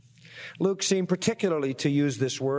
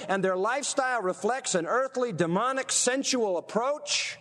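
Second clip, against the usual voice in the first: higher-pitched, insistent sermon delivery; heightened preaching; 5 semitones higher than usual. Real, not acted. Preacher describing double-minded sinners to the congregation, heightened preaching. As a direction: preach it phrase by phrase, pitch lifted.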